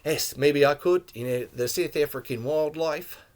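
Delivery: lightly attempted South African accent; a hint of playful South African accent. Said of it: "It's okay to do that accent".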